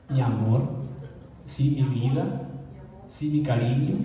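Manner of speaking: lightly voiced Puerto Rican woman calling a man mi amor; slow, affectionate pet names, lightly imitated; mock sweet talk. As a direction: coo the pet names a little, like a lady teasing. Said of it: "cómo le dicen a los hombres".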